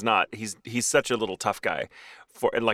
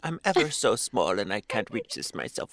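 sweet little dog; 5 dB quieter than usual. Retold or imitated. Little dog asking dad for a toy, soft and sweet. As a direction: politely beg like a tiny dog. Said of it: "he becomes like".

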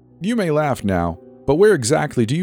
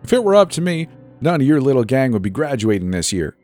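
high, scornful principal; indignant scolding, pitched up; spat out; 7 semitones higher than usual. A narrator's reading. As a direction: spit it into the microphone at the pupils. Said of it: "Clay spat into her microphone".

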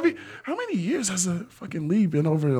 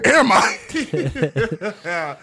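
mock confused; 6 semitones higher, 4 dB louder, much slower than usual. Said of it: "I'm like".

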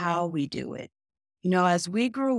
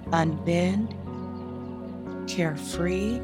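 sleep story narrator. Acted. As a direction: lull them calmly, word by word. Leads a guided meditation.

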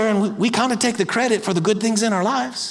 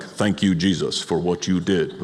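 very low monotone, robotic thanks; stoic robot; 13 semitones lower, 3 dB quieter than usual. Acted. Churchgoer thanking Jesus like a robot, stoic. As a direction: intone it like a robot, without feeling. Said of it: "we would do it very stoically".

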